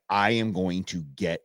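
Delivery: low, slow, pitiful dog voice; cowering dog voice. Retold or imitated. Dog crawling to its owner, cowering slow low voice. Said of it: "Belly crawls, like".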